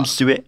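"Unzue" with the last E sounded as its own syllable; accented final E. Shown as a demonstration. Host checks the Spanish name's pronunciation, "Unzue" with accented final E. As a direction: say "Unzue" ending on a clear, accented E. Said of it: "Det er en sånn strek over en, så det er vel E".

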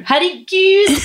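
imitating a friend's high-pitched exclamation; mock high cry. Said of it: "Og så roper du".

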